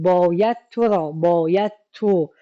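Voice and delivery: باید تو را, تو pressed and falling; باید تو, تو held; stress on تو. Shown as a demonstration. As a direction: lean on تو.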